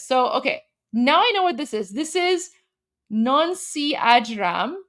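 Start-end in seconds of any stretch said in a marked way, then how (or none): 3.1-4.8 a singer's name read slowly with an open NAHN-see; sounded out. Shown as a demonstration. Streamer showing chat she can read Arabic script, sounded out. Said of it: "I can read this".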